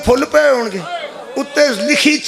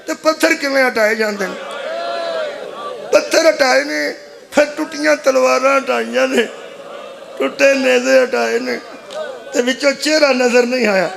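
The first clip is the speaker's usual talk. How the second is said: raised, mournful majlis delivery; lamenting preacher. Real, not acted. Preacher telling mourners of the headless brother, lamenting. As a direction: recount the tragedy as an impassioned lament.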